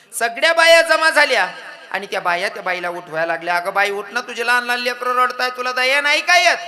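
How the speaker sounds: loud, high reproach; women shouting. Acted. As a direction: shout at her to get up. Village women shout at the woman.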